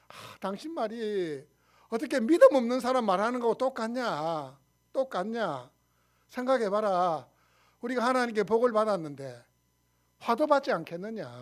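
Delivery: mildly dignified, kindly husband; benevolent and dignified. Acted. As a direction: reprove gently, with measured authority. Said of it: "아주 뭐 이렇게 인자하고 근엄하게". (인자하고 근엄하게 타이르듯)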